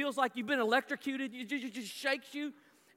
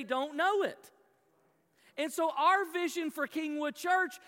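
preaching; 3 semitones higher, 3 dB louder than usual. Real, not acted. Preacher builds to his main point.

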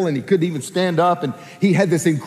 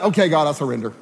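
forced surrender; 4 semitones lower, much faster than usual. Acted. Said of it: "gun in the gut".

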